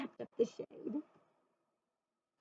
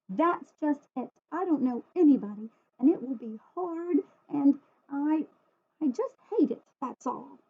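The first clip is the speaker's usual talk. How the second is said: put-on higher, tense complaining child; upset child; 4 semitones higher, 3 dB louder than usual. Sarah telling her father she hates school, upset. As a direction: voice a hurt, stubborn girl.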